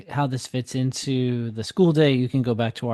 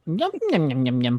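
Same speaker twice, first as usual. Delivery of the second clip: puppet eating sound; 3 dB quieter than usual. Retold or imitated. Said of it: "to have a sound effect".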